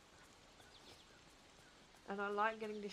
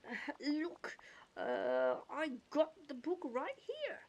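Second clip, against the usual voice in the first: lightly voiced goofy cartoon character; a hint of goofy cartoon accent; 3 semitones higher, slower than usual. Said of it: "goofy accent".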